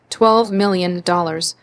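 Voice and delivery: slow, savoring each word; slowly. Acted. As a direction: draw out the number as if tasting it. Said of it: "She said the number slowly".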